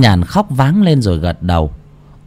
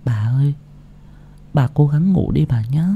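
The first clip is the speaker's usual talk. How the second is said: put-on tender, slightly raised young voice; gentle coaxing granddaughter; 5 semitones higher, 4 dB quieter than usual. A narrator's reading. Granddaughter tucking grandmother into bed, gently coaxing. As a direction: softly urge her to rest, a little higher.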